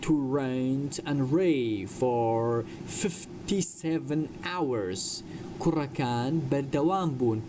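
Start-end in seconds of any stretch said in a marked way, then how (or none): 0.0-5.0 slow, deliberate sentence for learners; slow model reading. Shown as a demonstration. Teacher reads a story sentence to English learners, slowly. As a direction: draw each word out for students.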